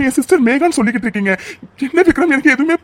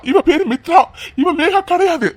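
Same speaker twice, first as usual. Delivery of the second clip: higher, urgent denial; insistent outburst; 4 semitones higher than usual. Acted. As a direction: cut her off, refusing it outright. Husband insists she is his wife. (உறுதியான உரத்த மறுப்பு)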